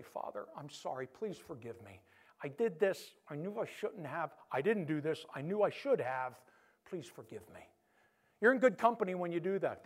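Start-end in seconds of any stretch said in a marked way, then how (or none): 0.0-7.6 humble prayer. Shown as a demonstration. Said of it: "come to Him and say".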